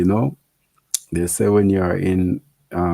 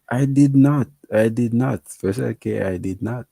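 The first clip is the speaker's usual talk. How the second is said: mock indignant denial; 5 semitones higher than usual.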